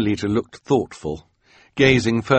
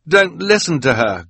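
put-on high, loud boyish plea; urgent pleading; 9 semitones higher, 6 dB louder than usual. A narrator's reading. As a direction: beg her loudly not to listen. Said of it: "Quigley pleaded".

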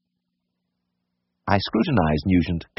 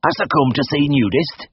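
put-on higher-pitched, glum old countryman; gloomy old gardener; 8 semitones higher than usual. A narrator's reading. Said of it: "he greeted me gloomily with".

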